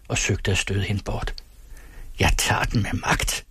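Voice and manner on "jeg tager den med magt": unvoiced hiss; hissed threat. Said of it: "hvæsede den syge frue".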